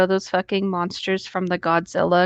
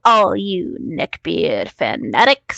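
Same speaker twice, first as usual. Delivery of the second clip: dramatic host intro; much slower than usual. Acted. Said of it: "your line".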